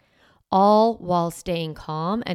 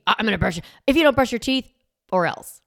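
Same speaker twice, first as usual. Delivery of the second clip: mock threat; 3 semitones higher, 5 dB louder, much faster than usual. Yelling model.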